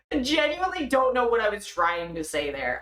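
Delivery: ordinary talk, nothing marked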